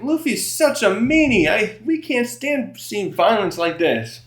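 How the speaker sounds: hammed-up complaining children; mock whiny kids. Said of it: "are yelling".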